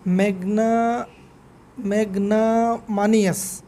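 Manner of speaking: ম্যাগনামানিয়াস said slowly, every syllable sounded; full pronunciation. Shown as a demonstration. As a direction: pronounce the whole of ম্যাগনামানিয়াস. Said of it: "পুরোটাই উচ্চারণ করবেন". (পুরো শব্দ ধীরে উচ্চারণ)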